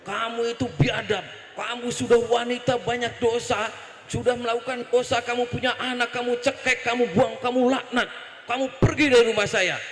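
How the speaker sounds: retold outburst of a furious prophet; mock rage, rising toward the dismissal; angry scolding. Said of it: "Nabi Musa langsung ngamuk".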